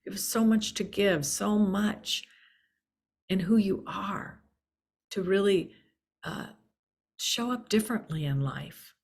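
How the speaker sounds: gently earnest retold plea; firm, caring teacher urging a student, lightly voiced; firm but loving. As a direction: speak firmly, with love underneath. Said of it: "very firmly but very lovingly said".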